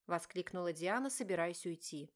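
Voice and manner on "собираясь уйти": plain reading voice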